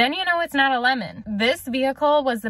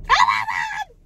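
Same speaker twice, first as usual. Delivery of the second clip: loud joyful exclamation; excited shout; 3 dB louder than usual. Real, not acted. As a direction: shout with disbelief and joy. Just bought the car.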